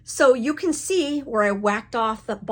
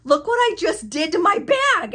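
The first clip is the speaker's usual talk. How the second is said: much higher and louder mock wail; showing off the disaster; 11 semitones higher, 7 dB louder than usual. Showing husband the ruined bag, high loud comic dismay. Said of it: "told my husband".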